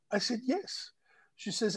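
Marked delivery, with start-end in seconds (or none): 0.4-0.9 high, soft acted yes; insisting reply. Answering the doubting woman, high soft insistence. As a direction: answer softly, pitched way up.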